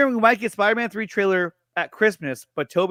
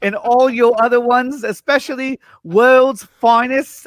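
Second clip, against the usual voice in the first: put-on British accent; 3 semitones higher than usual. Streamer finishing Fatma's message in a bad British accent. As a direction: push through the failing British accent. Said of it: "I can't even do a very good British impression".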